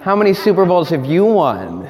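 put-on light childish taunt. Shown as a demonstration. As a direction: tease like a playground kid. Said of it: "now say it like a child would say it".

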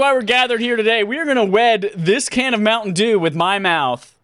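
high, fast mock wedding speech; mock officiant. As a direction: preside like a pompous priest.

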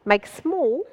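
lightly voiced pharmacist through laughter; half-laughing mock pharmacist; quoting the pharmacist. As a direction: pharmacist pushing the jar, laughing. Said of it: "He said".

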